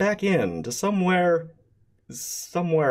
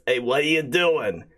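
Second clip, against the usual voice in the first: goblin prince; 4 dB louder than usual. Acted. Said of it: "the Goblin Prince says".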